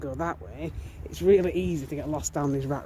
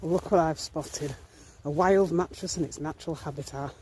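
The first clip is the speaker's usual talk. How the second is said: David Attenborough; 4 dB quieter than usual. Pretend. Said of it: "I feel like a low budget David Attenborough".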